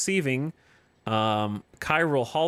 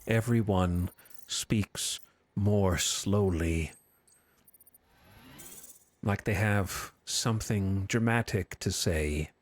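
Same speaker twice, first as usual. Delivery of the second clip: bad acting; 4 semitones lower, slower than usual. Shown as a demonstration. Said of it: "They just speak like they're in slow motion".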